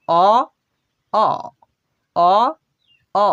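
অ short and unstressed, repeated; quick light অ; weak schwa sound. Shown as a demonstration. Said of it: "দুর্বলভাবে সেটা উচ্চারণ করতে হবে". (দুর্বল ছোট অ)

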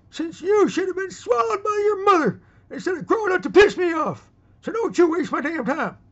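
high, loud, drawn-out tirade; furious shout. Acted. Old man berates a young punk for wasting his time, shouting. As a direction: yell it as a full-force scolding.

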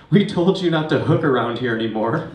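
loud stern cop voice; loud cop bark. Retold or imitated. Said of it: "And they're like".

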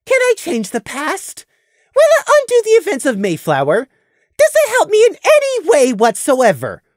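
high, loud bitter tirade; bitter rant. A narrator's reading.

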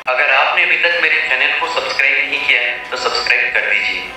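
voice-changer AI effect; artificial intelligence voice. Shown as a demonstration. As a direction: sound like a processed AI assistant. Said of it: "सबसे पहले आता है artificial intelligence".

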